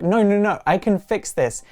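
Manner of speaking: hurried-sounding desperate insistence, played for a recap; mock panic. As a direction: lightly act out a frantic protest. Frantic girlfriend begging in retold breakup.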